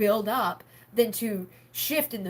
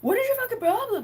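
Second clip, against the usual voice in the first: high, loud exasperated shout; loud mock fury; retold angry yell; 13 semitones higher, 5 dB louder than usual. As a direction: snap back at him in the retelling. Retold argument with dad.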